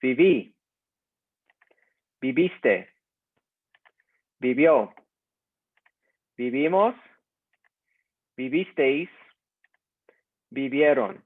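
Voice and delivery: each form of vivir said alone and clearly, a pause after each, for the class to repeat; slow model pronunciation. Shown as a demonstration. Teacher drills vivir forms aloud for the class, slow and clear. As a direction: model each word slowly for students to echo. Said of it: "Let's do vivir".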